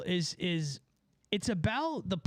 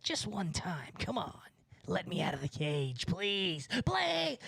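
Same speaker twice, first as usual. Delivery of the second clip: pleading inner gargoyle. Acted. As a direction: plead like a caged temptation, peaking on the final word. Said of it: "that thing in me that's like".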